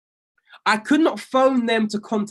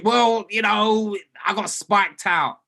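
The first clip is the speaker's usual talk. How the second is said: slow, drawn-out mock excuse; whiny excuse; slower than usual. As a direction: drag out the lame excuse of a trader. Mocking a trader's excuse.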